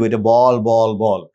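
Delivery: put-on slow repeated naming for a child learning to talk; naming a toy for a baby. Shown as a demonstration. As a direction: show the child the ball and say it. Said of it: "বলে দিব".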